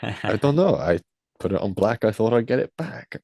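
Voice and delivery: bad attempt at a Dutch accent; imitating Max in a poor Dutch accent. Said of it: "I clearly can't do a Dutch accent".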